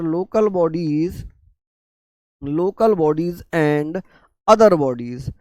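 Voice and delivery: very slow, drawn-out term-by-term delivery; slow dictation. Real, not acted. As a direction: dictate it slowly, pausing between phrases. Teacher dictating term for note-taking.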